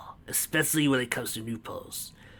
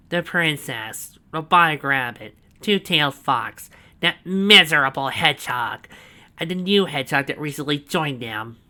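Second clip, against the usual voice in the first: proud villain boast; 4 semitones higher, 8 dB louder than usual. A narrator's reading. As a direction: savour every word of the boast. Snively's voice.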